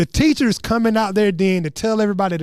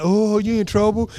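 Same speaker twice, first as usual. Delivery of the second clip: quicker, milder mock class taunt; taunting classmates. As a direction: toss off the kids' teasing chant briefly. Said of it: "It's like".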